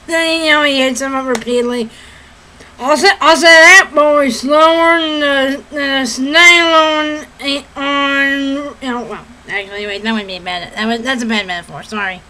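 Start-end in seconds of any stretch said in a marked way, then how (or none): 2.8-8.7 slow, blustering Southern cartoon rooster; Foghorn Leghorn. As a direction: drag out the rooster's folksy simile. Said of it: "Foghorn Leghorn".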